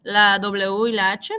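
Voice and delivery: "la W y la H" slowly, each letter clear. Shown as a demonstration. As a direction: spell out "la W y la H" slowly. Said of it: "Después tenemos esta". ("la W y la H" despacio y claro)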